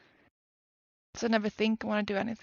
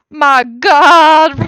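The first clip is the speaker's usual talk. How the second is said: very loud, higher exclamation; startled outburst; 5 semitones higher, 18 dB louder than usual. Real, not acted. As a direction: cry out loudly in shock. Startled while setting up, bursts out.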